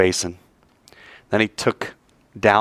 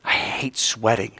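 whiny son; 6 dB quieter, much slower than usual. Acted. Son complaining while working.

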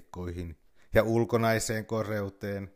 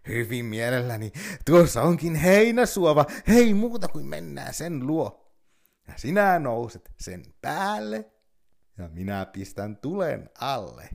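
eager fox; 4 semitones higher, 6 dB louder than usual. Acted. Fox eagerly leads bear.

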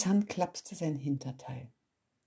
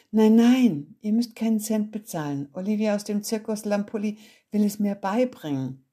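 higher, louder eager protest; eager defense; 5 semitones higher, 6 dB louder than usual. Acted. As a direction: plead your case eagerly. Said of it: "verteidigte ich mein Vorhaben". (Junge verteidigt eifrig seinen Plan, höher)

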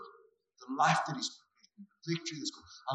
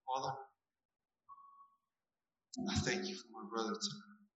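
hushed prayer. Acted. Prays over a man.

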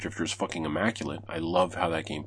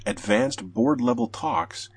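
higher and slow, holding up each word as a phrase; mock quoting; slower than usual. Host reads the rumor's wording to listeners as a slow, ironic quote.

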